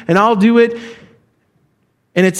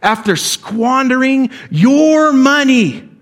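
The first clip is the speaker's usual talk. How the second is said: scornful accusation; 6 semitones higher, slower than usual. Acted. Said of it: "can you see this picture?".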